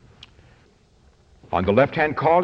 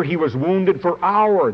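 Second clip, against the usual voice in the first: our leaned on, falling; stress on our; 4 semitones higher than usual. Shown as a demonstration. Preacher pointing congregation to the word our, stressed. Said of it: "there it is".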